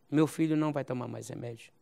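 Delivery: ordinary delivery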